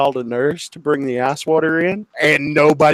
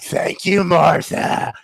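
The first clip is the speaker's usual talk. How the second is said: mock thanks; 5 semitones higher, slower than usual. Retold mocking thanks to nurse.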